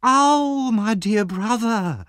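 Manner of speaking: very high, drawn-out wailing cry; loud scream. A narrator's reading. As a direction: cry out shrilly, stretching the words. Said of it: "there was a loud scream".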